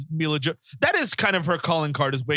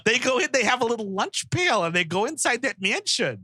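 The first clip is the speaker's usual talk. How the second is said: higher, singsong neighbour gossip; nosy neighbour; 6 semitones higher than usual. Acted. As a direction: gossip to your spouse about the strange mansion.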